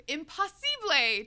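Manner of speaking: slow, high astonished cry; exclaiming. Acted. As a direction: exclaim it in disbelief. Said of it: "Tessa exclaims".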